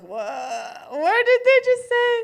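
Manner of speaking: high, puzzled American voice; lightly mocking a confused foreigner. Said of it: "I see Americans go like".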